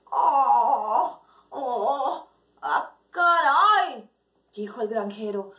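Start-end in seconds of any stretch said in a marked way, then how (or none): 0.1-4.1 "caray" alargado y lento, asombrado; asombro. Acted. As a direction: se queda pasmado al ver el huevo. Granjero asombrado ante el huevo. (asombro lento y alargado)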